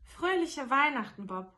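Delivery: earnest. A narrator's reading. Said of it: "mit einem Ernst, der nicht missverstanden werden konnte".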